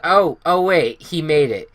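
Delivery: surprised. Retold or imitated. Reliving the game-winning kick.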